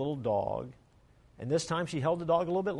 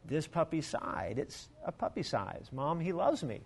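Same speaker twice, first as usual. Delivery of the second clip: put-on a hushed child explaining the sigh; a girl telling her mother softly why she chose the puppy; little girl voice; 3 dB quieter than usual. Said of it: "she said".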